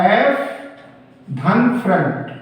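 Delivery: slow split: एफ, then धन फ्रंट; split into parts. Shown as a demonstration. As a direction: break the word into two parts slowly. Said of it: "इसको दो भागों में बांट दिया".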